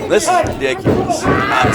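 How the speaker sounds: exasperated. Real, not acted. Fed-up commentator at dirty tactics.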